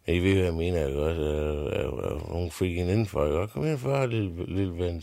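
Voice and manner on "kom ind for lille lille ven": dronningen. Acted. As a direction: coo it out like a fussing queen. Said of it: "siger hun nok". (dronningen kurrer højt til den lille pige)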